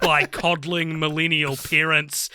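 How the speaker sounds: lightly put-on disparaging voice; a touch of mock contempt, clearly not your own view; put-on derogatory voice. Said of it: "I gotta put on a voice for the next sentence".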